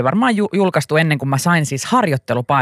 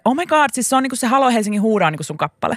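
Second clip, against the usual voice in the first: tag; 7 semitones higher than usual. Retold or imitated. Retold friend's excited realisation.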